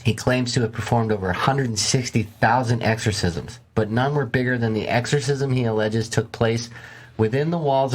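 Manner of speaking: measured documentary-style read; story narration. A narrator's reading.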